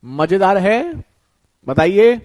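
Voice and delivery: loud call for answers, slow on मजेदार है. Real, not acted. Teacher urging online students to answer, calling out loudly. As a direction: call out to the class for replies.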